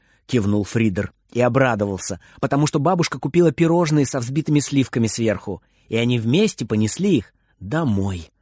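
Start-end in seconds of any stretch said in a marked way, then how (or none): none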